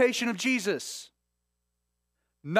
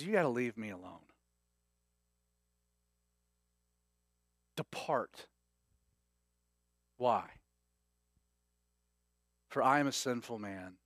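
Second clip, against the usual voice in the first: humbled Peter; 8 semitones lower, 7 dB quieter than usual. Retold or imitated. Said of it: "Peter falling at Jesus' knees".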